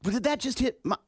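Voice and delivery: rising panic, then a pained gasp and shout; guy gasping after a hit to the groin; just hit in the groin. Retold or imitated. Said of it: "Guys will go".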